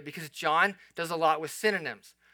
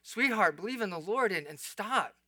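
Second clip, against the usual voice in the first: tender, pained plea; heartbroken; 3 semitones higher than usual. Acted. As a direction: plead gently with someone you love. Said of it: "your heart breaks at the same time".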